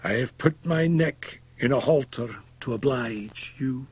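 high, strained, somewhat hoarse voice; anguished, high hoarse reproach. A narrator's reading. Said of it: "still somewhat hoarsely".

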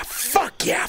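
voiced, gleeful "Fuck yeah"; voiced cheer. Real, not acted. Thief celebrating a clean steal, voiced cheer. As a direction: let the win out in a pumped-up cry. Louder cheer after whispered one.

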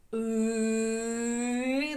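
дуже повільно, наспівно тягнучи «І»; проспівати фразу, тягнучи голосний; протяжно проспівано. Shown as a demonstration. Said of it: "з силою голосу промовляти, проспівувати". (повільне наспівування)

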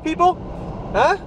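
squeaky high-pitched goofy voice; goofy falsetto talk to the viewers; silly high voice. Pretend. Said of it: "Why am I talking like this?".

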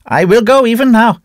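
very high, loud outcry; shouting priest. A narrator's reading. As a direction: fling it out in holy frenzy. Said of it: "shouted the priest".

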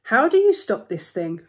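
loud, acted storybook call; mildly urgent read-aloud shout. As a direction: call out mid-tumble. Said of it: "called Timothy".

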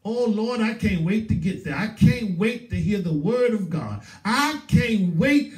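acted eager anticipation, last words stretched; eager excitement. Churchgoer longing to hear the word of God, eager excitement. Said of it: "I'm so excited".

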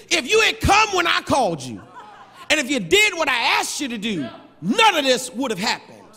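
indignant reproach. Acted. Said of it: "let me give you how John Wesley say".

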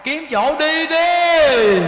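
slow, loud, high shout; shouted urging. Acted. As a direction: call it out loud and drawn out. (hét to, kéo dài từng chữ)

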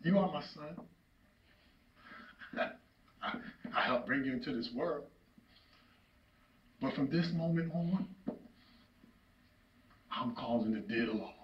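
low, halting, grave delivery; subdued disowning. Acted. Father disowns son.

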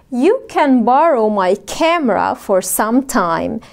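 very slow, every word separated; slow model sentence. Shown as a demonstration. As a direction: spell it out slowly for learners. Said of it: "قولوا معايا". (جملة بطيئة جدًا للتعليم)

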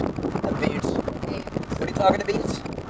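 slow mock Canadian with "aboot"; mock Canadian accent. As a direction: exaggerate a Canadian accent, drawn out. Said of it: "He said in Canada".

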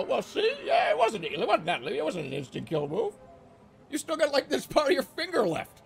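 mock investigator. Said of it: "pick it up and go".

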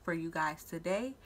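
speaking with a retainer in; words slightly lisped around a retainer; wearing a retainer. Real, not acted. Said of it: "if I sound a little funny, I have my retainers in".

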